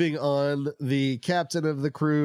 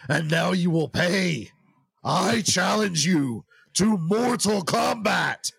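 barbarian; 2 semitones higher than usual. Acted. Space tomato revenge challenge.

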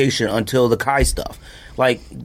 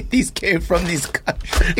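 laughing mock voice; 3 semitones higher, slower than usual. Joking factory worker voice.

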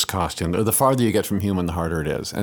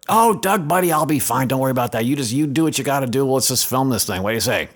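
breezy reassurance; 3 semitones higher than usual. Retold or imitated. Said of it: "just be careful because I think".

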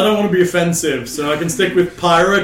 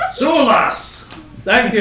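Scottish dwarf; 5 semitones higher, slower than usual. Acted. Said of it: "right back to Scottish".

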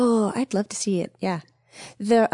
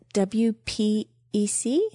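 slow letter by letter; spelling it out; slower than usual. Shown as a demonstration. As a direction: spell out each letter slowly. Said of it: "Okay, here we go".

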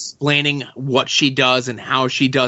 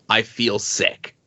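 soft and slow, a hint of queasy dread; quiet dread; 3 semitones lower, 5 dB quieter, slower than usual. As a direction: drop the voice as if the nerve fails. Rain dreading facing the world.

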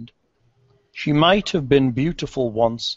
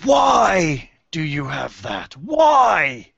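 banshee voice; 3 semitones higher, much slower than usual. Acted. Banshee demands about comb.

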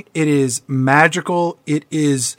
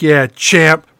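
dismissive dad; 3 dB louder than usual. Retold or imitated. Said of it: "Dad's all like".

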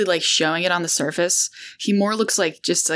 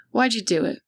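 even and controlled, no heat; calm, measured tone; 5 semitones higher than usual. Acted. Lorne confronting Cecily over the stolen eggs, calm and measured. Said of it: "in a very calm, measured tone".

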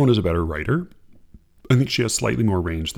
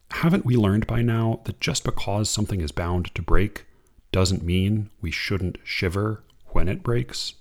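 unhurried reading of verse; poem reading; 2 semitones lower than usual. Acted. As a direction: read it like a poem to an audience. Reads a Limon poem.

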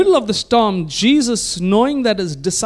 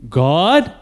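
tentative call, just above a whisper; timid child's call with a rising question; a little louder; 3 semitones lower than usual. Retold or imitated. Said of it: "Then a little more loudly".

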